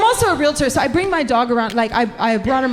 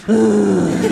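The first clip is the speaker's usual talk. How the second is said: short low growled ugh; mock growl; 4 semitones lower, 4 dB louder than usual. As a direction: growl it like a dog. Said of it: "growl in his ear".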